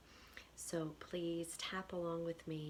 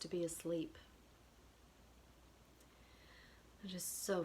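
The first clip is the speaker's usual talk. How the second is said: measured repeat-after-me phrases with long pauses; tapping affirmation script. Acted. Tapping guide gives listeners phrases to repeat, measured affirmation delivery. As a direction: lead a tapping round, one short phrase at a time.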